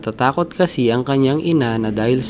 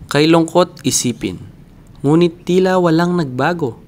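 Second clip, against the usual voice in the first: Pilosopong Tasyo; 2 semitones higher, 3 dB louder than usual. Acted. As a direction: start measured, grow into an impassioned plea to your countrymen. Monologue as philosopher Tasyo, building in force.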